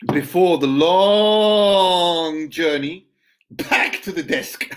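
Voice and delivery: spaced-out recital, key words stretched; poem reading. Acted. Poet resuming the verse about the desk, poem reading. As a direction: draw out "long" and leave pauses between phrases.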